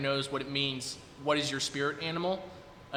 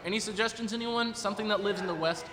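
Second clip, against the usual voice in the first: calling out; 7 semitones higher than usual. Real, not acted. Host appeals to the audience.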